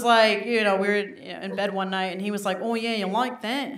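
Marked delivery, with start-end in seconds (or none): 2.6-3.7 lightly voiced Aussie boyfriend; Australian accent. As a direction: imitate an Australian guy in bed. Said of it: "Jono was from Sydney".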